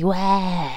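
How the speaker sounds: put-on hint at the child's "Wäh!" without raising the voice; mild imitated kid scream; quiet mock yell. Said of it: "ich mach's jetzt nicht laut vor".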